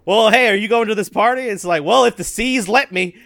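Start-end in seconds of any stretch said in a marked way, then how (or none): 0.0-1.4 pirate voice. Retold or imitated. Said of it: "You start talking like a pirate". 1.8-3.2 pirate voice. Retold or imitated. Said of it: "You start talking like a pirate".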